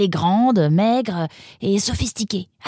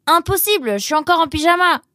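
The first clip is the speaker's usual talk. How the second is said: raised, higher-pitched reply; calling back; 4 semitones higher than usual. Acted. Nemrod still in pyjamas answering Roxane, calling back. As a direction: call back a refusal. Shouted answer across the house.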